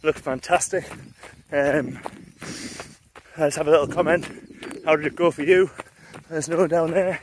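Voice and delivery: talking mid-run, a little breathless; while running. Real, not acted. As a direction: speak while jogging along. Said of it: "enjoy the run".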